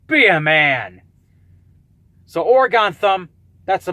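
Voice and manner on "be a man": stern command. Retold or imitated. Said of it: "the guy in the driver's seat is like".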